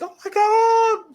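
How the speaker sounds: high, slow, gushing mom; drawn-out high devoted-fan gasp; imitating mom. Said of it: "My mom and my stepmom both were like".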